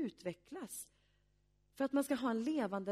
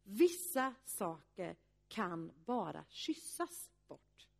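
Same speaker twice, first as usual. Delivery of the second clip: slow, tender quoting of "Vissa saker kan bara kyssas bort", fading away on "bort"; friend's gentle advice; 4 semitones lower, slower than usual. Retold or imitated. Pastor quoting a friend's advice to a doubting groom, slow and tender. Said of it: "Och så sa den här vännen så här".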